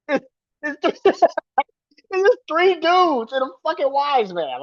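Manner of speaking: words bubbling out between laughs; laughing in disbelief. Real, not acted. Host laughing at three dudes and a wise man, slow and high. Mocking the faction's makeup.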